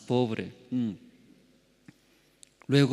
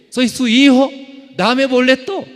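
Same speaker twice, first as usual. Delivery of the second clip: much higher and louder, crying out to God; loud desperate plea; 13 semitones higher, 11 dB louder than usual. Retold or imitated. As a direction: beg at the top of your voice. Pleading to God, retold.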